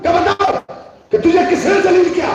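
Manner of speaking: acted indignant demand. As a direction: demand an answer, as the father in the story. Acted demand of father to Yazid.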